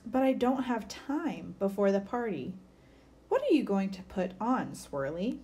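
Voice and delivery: put-on lively picture-book read-aloud for kids; story reading. A narrator's reading. Teacher reading a bird story to children, lively. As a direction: read it like story time for a class.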